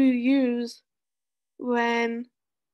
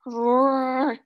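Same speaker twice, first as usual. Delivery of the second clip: lion roar; 5 dB louder than usual. Shown as a demonstration. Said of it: "Let me hear you roar like a lion".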